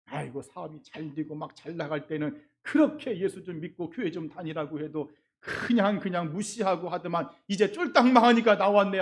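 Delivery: grumbling. Retold or imitated. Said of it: "막 속으로 궁시렁거리면서".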